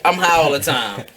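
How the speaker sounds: flat robot voice, imitating a rapper; droned like a robot. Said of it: "And in my robot voice".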